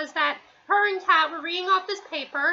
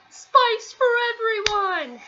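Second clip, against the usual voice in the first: high, drawn-out mock cheer; stretched, higher-pitched imitation of a happy announcement; imitated calling out; 5 semitones higher, 4 dB louder, slower than usual. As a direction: call it out slowly to the whole room. Imitating Dice calling out to all.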